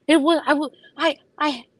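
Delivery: high, cracking voice fighting tears; choking up while telling it; voice breaking. Real, not acted. Telling friends about the missed flight, voice cracking.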